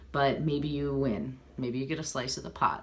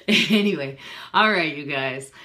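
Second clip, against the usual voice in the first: loud sign-off; 2 semitones higher, 6 dB louder than usual. Real, not acted. Signing off to viewers.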